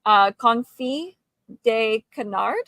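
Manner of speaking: slow questioning "confit", "canard" as ka-NARD; tentative "confit de canard", de like day; attempted French. Shown as a demonstration. Guest claiming French now, unsure "confit de canard". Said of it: "I'm French now".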